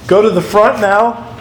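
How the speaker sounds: ordinary talk, nothing marked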